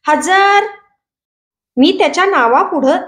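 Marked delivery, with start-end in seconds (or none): 0.1-0.6 put-on a startled boy blurting out his answer; shouted answer. Boy jumps up and answers the roll call, shouting. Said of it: "ओरडलं".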